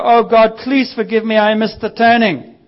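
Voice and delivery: hammed-up begging after a wrong turn; panicked prayer. Preacher mocks a driver panicking over a missed turning. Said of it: "You don't stop the car and go".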